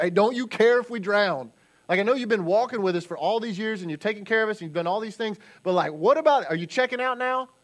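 loud, fast, rising whine; frantic sailors shouting for help; mock panicked disciples. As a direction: pester a sleeping friend in a panic. Disciples accusing Jesus.

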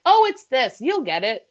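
imitating Diane. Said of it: "She's like".

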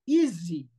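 EASY with a voiced z; correct English easy. Shown as a demonstration. Teacher showing English easy correctly, voiced z. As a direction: buzz the s in "easy" like a z. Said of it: "no sabe pronunciar la palabra en inglés".

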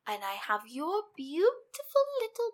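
high, gloating villain voice; sneering panto villain. Retold or imitated. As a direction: savour every word like a cartoon baddie. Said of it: "tells Rumple, like".

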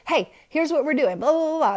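mock coach yell, rattled off; retold yelling. Coach calling to distracted kids, loud mock yelling. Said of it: "if yelling's not working".

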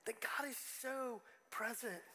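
slow, awed whisper. Real, not acted. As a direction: breathe it out in a hush. Emotional moment, hushed reminder.

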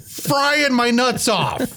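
laughing through the words. Real, not acted. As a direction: crack up while saying it. Laughs while telling.

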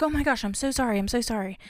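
retold panicky apology, lightly acted; mildly freaked-out apology. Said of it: "I would freak out".

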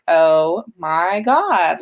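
slow, stunned gasp of realization; mild retold shock, stretched out slow; drawn-out oh my god. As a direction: let it sink in, dragging every word. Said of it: "and I was just like".

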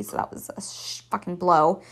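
whispering the swear word; whispered. Real, not acted. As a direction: drop to an unvoiced whisper. Swear under breath.

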